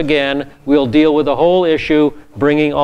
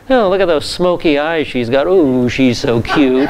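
leering admirer; 2 semitones lower than usual. Retold or imitated. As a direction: savour each word like an ogling man. Imagined man ogling a woman.

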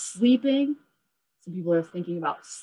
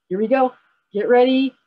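building excitement, higher and louder; starting a game; 6 semitones higher, 6 dB louder than usual. Real, not acted. Teacher firing up children before a game, excited.

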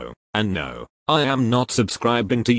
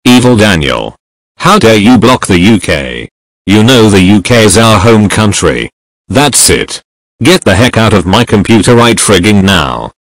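loud, furious shouting; furious yelling; 14 dB louder than usual. Acted. Narrator yelling at evil clone Daniel, furious shout. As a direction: scream him off your computer. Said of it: "I got super angry to my evil clone Daniel".

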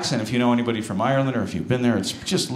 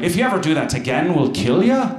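put-on Irish accent; 3 semitones higher than usual. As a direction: imitate a threatening Irishman in a light Irish lilt. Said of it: "that accent is so adorable".

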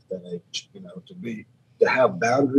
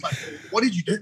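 panicked question; 9 semitones higher, 6 dB quieter, faster than usual. Retold or imitated. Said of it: "I was panicking".

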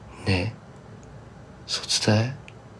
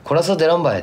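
Kumamoto dialect example; 6 semitones higher, faster than usual. Shown as a demonstration. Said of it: "って、普通だったら".

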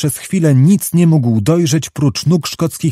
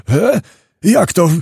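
dismayed outcry; 5 semitones higher than usual. A narrator's reading. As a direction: burst out in startled objection. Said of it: "krzyknął Zagłoba". (podniesiony okrzyk zaskoczenia)

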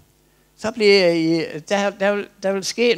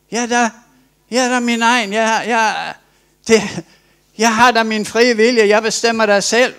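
high, louder, self-assured insistence; smug reply; 5 semitones higher, 5 dB louder than usual. Acted. A man claiming his free will, smug and loud. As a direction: answer as if it's obvious.

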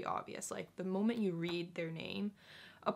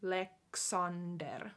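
Alexander with Finnish vowels and rolled r; Finnish accent; 3 semitones lower, slower than usual. Shown as a demonstration. Teacher giving Finnish-style reading of name. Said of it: "more Finnish-y pronunciation".

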